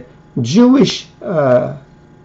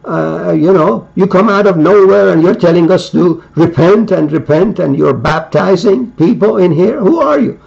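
pitched-up, pointed questioning of a stranger; challenging demand. Acted. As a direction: press him hard: who are you. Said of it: "send a representative to John and say".

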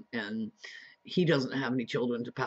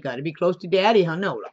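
pet talk; 6 semitones higher, 11 dB louder than usual. Real, not acted. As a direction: coo it up high to the pet. Cooing to dog beside him.

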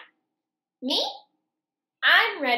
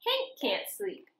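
whispered, higher refrain; 13 semitones higher, 6 dB quieter, slower than usual. A narrator's reading. Reading to kids, refrain whispered like a secret. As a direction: breathe the line unvoiced.

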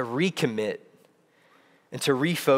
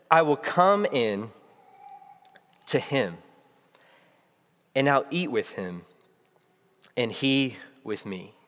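gentle invitation; 3 semitones lower than usual. Retold or imitated. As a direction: read it as a tender promise, unhurried. The true, welcoming words of Jesus.

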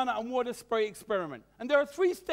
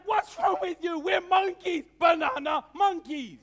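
outraged monkey; 3 semitones higher than usual. Acted. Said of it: "And the second monkey's like".

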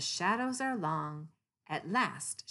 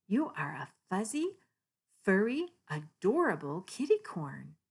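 louder, delighted gush; gushing kitty; 3 semitones higher, 5 dB louder than usual. Acted. Kitty gushes over unicorn, louder delight. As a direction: pour out admiration.

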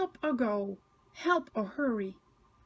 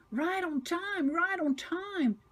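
high, slow, chugging chant; chugging rhythm; 7 semitones higher than usual. A narrator's reading. Thomas pleased to finish, chugging it out slowly. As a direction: chug the words out in rhythm. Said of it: "chugs Thomas".

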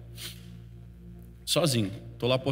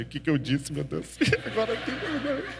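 nervous laughing panic; 4 semitones higher than usual. Retold or imitated. Nervous reply to threatening Kelly.

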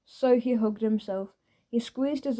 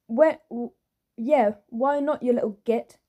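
snapping in temper. Acted. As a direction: lose her temper on him. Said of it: "definitely not controlling her temper".

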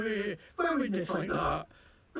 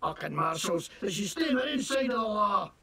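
fake Scottish accent. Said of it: "what the hell kind of accent is that, you fake-ass Scottish nonsense".

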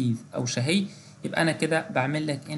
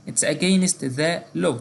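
teacher reading a model sentence slowly; slow example read; 2 semitones higher, 4 dB louder, much slower than usual. Shown as a demonstration. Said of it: "example phrase in lesson".

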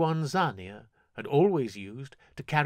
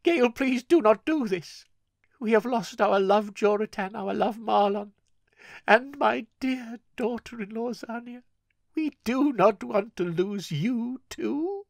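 put-on higher, louder pleading old woman; begging grandmother; 11 semitones higher, 5 dB louder than usual. Grandmother begging Gale not to die, lightly voiced pleading. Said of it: "Rosalina begged".

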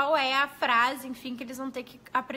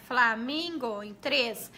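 "Flamingo" said slowly and spaced out; slow classroom demo; slow counting; 2 semitones lower, much slower than usual. Shown as a demonstration. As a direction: spell out the beats of "Flamingo". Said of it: "quanto ao número de sílabas".

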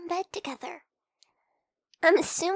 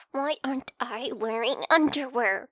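louder repeat; 4 semitones lower, 6 dB louder than usual. Acted. Repeating the question to the partner, louder and insistent. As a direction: say it again louder and pushier, stressing underwear. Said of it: "I said".

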